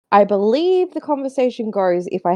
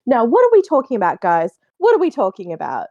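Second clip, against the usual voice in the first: lightly voiced tipster host; tipster impression. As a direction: loosely imitate the tipster host. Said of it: "You know how tipster says".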